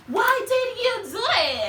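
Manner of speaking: high, drawn-out proper British outburst; mock an upset Brit who speaks too properly. Mimicking how Brits argue when upset, over-proper British accent. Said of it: "Them have to too proper".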